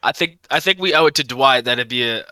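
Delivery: southern accent picked up without meaning to; lightly southern-accented, unintended; accidental southern accent. Real, not acted. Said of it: "I just said that with a southern".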